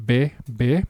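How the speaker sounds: "be, be" as two separate even syllables. Shown as a demonstration. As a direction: split it into be, then be. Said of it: "has two syllables. You have".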